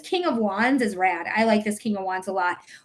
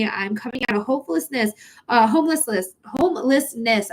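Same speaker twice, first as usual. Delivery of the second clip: crying. Real, not acted. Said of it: "I can't even talk right now 'cause I'm crying".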